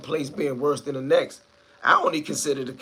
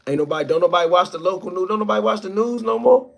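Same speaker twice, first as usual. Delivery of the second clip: faster, louder, rising higher; heated rant; 5 semitones higher, 6 dB louder than usual. Real, not acted. Streamer ranting to his chat that nobody watches the news, loud. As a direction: push it out like you're fed up.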